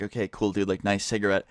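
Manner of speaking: quiet, unimpressed deadpan; sarcastic mutter. Retold or imitated. Class unimpressed by the cigarette.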